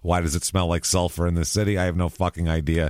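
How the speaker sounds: lightly voiced newscaster, only a touch of an anchor read; a hint of a TV anchor opening the broadcast; mock Midwestern news anchor. Mocking Heigl's hair as a local news anchor, lightly done newscaster voice. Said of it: "She looks like a Midwestern news anchor".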